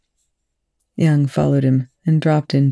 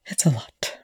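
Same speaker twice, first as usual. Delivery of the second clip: almost inaudible; 7 dB quieter than usual. A narrator's reading. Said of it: "his voice almost inaudible".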